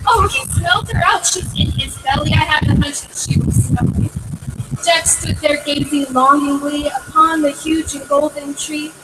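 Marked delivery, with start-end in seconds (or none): 0.1-4.1 crying out. A narrator's reading. Jack crying out that the giant ate his mom. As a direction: cry it out, much higher. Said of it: "Jack cried".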